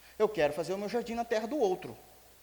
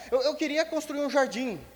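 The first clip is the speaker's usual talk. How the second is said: put-on sulky little kid; 5 semitones higher, 6 dB louder than usual. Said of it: "é um quico, não é?".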